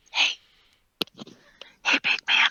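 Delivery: quiet whisper, close to the mic. Voicing a character perched on a companion's shoulders: whispering in character. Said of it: "so I'm gonna go ahead and whisper at him".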